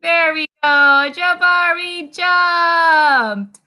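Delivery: excited praise. Real, not acted. Celebrating the jump for kids.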